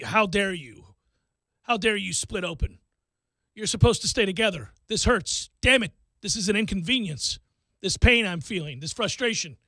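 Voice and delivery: indignant, aggrieved mock scolding; mock anger. Parent imitating a hurt kid scolding his injury, mock anger. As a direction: imitate someone taking an injury personally. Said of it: "He gets angry. He doesn't cry".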